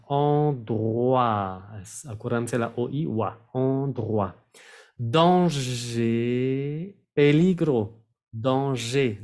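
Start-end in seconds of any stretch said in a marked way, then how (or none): 0.1-1.6 Endroit said as /ɑdʀwa/, oi as wa; French pronunciation. Shown as a demonstration. Teacher modelling Endroit for Spanish-speaking students. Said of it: "así se pronuncia". 8.3-9.2 Danger with silent final r, /dɑ̃ʒe/; French pronunciation. Shown as a demonstration. Teacher modelling Danger for students, final r silent. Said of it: "la R no se pronuncia".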